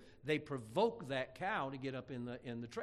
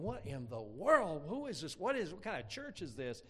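imitated bewilderment; 4 semitones higher than usual. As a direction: puzzle aloud in mock disbelief. Brother's bewildered thought, retold.

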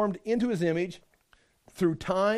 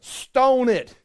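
loud, higher mock order; harsh command; 3 semitones higher, 5 dB louder than usual. Preacher voices the law's verdict on a lamb, loud command. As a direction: bark it like a stern lawgiver.

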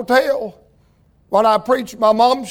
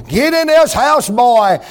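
higher, louder motherly order; mama's command; 3 semitones higher, 3 dB louder than usual. Retold or imitated. Mama calling Roy into the house, firm order. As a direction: order him in, no arguing.

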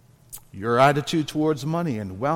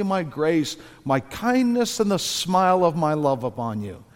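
higher-pitched, kindly fatherly questioning; kindly, gracious God; 3 semitones higher than usual. Acted. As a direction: gently plead with a dear child. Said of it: "God very kindly and graciously says".

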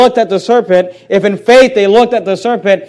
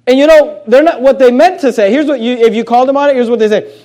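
ordinary talk

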